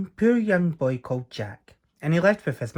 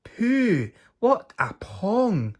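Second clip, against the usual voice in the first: high, loud, slow disgusted cry; harp shouting; 9 semitones higher, 4 dB louder, much slower than usual. Acted. Singing harp shouting at Jack's smell, high disgusted squeal. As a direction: squeal at the stink. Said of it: "the harp shouted".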